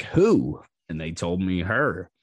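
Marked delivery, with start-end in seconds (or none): 0.0-0.6 loud, high, startled question; retold loud surprise; shocked who. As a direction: blurt it out in shock. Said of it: "And I was like".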